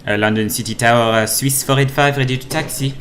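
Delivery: put-on pilot radio call in a light French Swiss accent. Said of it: "This is, this is a French accent".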